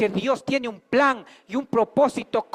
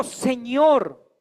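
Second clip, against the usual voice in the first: drawn-out, slow awed plea, a little louder; very slow, hushed-awe question to the Lord; Saul pleading; 4 semitones higher, 6 dB louder, much slower than usual. Acted. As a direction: ask it as a trembling, humbled Saul.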